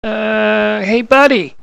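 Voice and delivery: high-pitched morphed voice; squirrel voice. Acted. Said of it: "talk in this squirrel voice".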